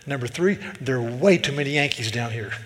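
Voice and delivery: imitated Southern local grumbling about outsiders; thick Southern accent. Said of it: "this guy was thick".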